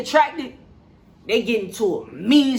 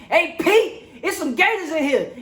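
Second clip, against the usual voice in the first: mock yell; 5 semitones higher than usual. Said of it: "He is yelling to Pete".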